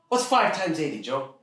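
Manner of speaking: high-pitched, pressing father voice; quizzing dad. Acted. Dad testing teen's math, pressing. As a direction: push the kid toward the answer.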